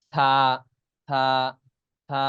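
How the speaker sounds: থা as a lisped th, tongue tip slightly out; tongue lightly out. Shown as a demonstration. Teacher drilling an Arabic letter, থা with tongue lightly out. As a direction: let the tongue peek out for থা. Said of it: "জিহ্বা হালকা বের হবে".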